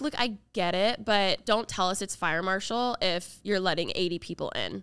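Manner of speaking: normal talking voice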